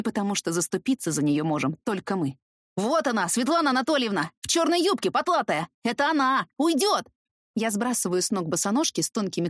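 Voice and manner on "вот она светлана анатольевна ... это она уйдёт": put-on high, urgent child's cry pointing someone out; a girl calling out in alarm, higher; excited child shouting. Girl alerts teacher the mother is escaping, urgent higher cry.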